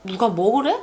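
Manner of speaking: 먹으래 rising as "did anyone tell you?"; stress on 먹으래. Shown as a demonstration. To a friend who overindulged, stress on 먹으래. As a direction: toss off 누가, lean on rising 먹으래. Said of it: "if the emphasis is placed on the 먹으래".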